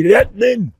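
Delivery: loud scandalized exclamation; mock outrage. Speaker acting shocked at a joke, loud mock outrage. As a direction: cry out as if deeply offended. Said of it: "I say".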